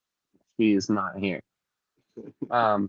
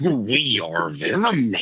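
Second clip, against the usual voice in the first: Venom voice; much slower than usual. Pretend. Venom voice joke.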